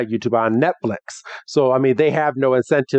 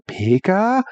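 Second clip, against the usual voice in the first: a light, raised squeaky Pikachu cry; Pikachu impression; 6 semitones higher than usual. Retelling the episode, a lightly voiced Pikachu peep. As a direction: chirp it like the little electric mouse. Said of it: "And Pikachu's like".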